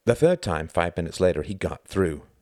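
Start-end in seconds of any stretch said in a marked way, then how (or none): none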